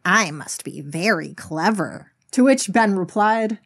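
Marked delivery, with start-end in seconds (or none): 0.0-2.1 slow, self-satisfied storybook voice; smug. Acted. Farmer congratulating himself on his idea, acted smugness. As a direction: savor it with a smug smile. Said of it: "a smug smile spread across his face".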